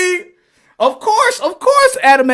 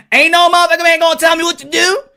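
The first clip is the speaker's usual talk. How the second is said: higher, louder defiant declaration; defiant shout; 7 semitones higher, 5 dB louder, faster than usual. Acted. Eve defying God's rule, loud and defiant. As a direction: throw it out with attitude.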